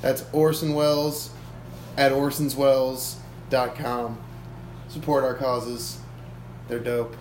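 mock ad read. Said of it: "give yourself a, uh, advertisement".

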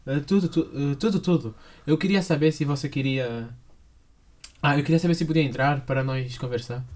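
put-on Brazilian Portuguese accent. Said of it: "então, Pep, tudo bem?".

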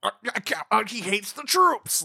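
outraged critic. Retold or imitated. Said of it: "like one of those situations".

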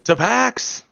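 high, loud toast. Acted. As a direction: raise a cheer to Pax. Raising skewers in a toast.

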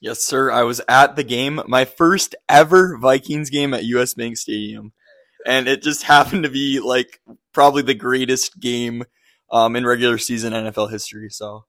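raspy, worn-out voice from cheering; hoarse voice. Real, not acted. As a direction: talk with a voice gone hoarse. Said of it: "you kinda lost your voice a little bit".

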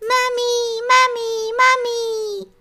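high, loud happy shout of mummy; joyful cry. Acted. Little hare spotting his mother, crying out joyfully. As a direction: burst out with relief at finding her. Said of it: "vykřikl radostně".

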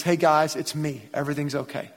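lightly voiced Jesus comforting his scared friends; caring reassurance. Jesus comforting his scared disciples, softly caring. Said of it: "in care and in love and says".

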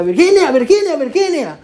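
very high, wailing imitation of grief; llanto imitado. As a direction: cry out the name, stretched and pleading. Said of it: "hermana Marianita estaba llorando". (imitando un lamento agudo y desesperado)

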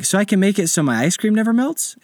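put-on high excited kid voice; eager child voice. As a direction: ask like a thrilled little boy.

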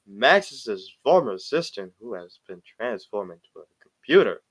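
storyteller voice with swooping tune; dramatic narration. Acted. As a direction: read it like an epic trailer. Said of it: "I don't know why I'm talking like this".

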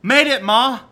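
mock triumphant shout; gangster triumphant yell. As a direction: shout it to the top of the world like a doomed gangster. Reciting Cagney quote.

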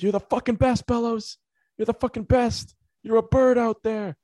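high-pitched put-on heckler voice; mock bench chirp. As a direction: jeer at a teammate in an exaggerated high voice. Imitating player heckling from the bench.

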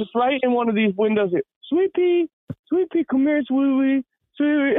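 put-on high quavery old lady calling her dog. To the narrator, old lady calls for her dog in a high voice.

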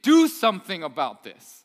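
mock-frantic shout to wake Jesus; panicked disciples. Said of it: "they get really upset, and they go".

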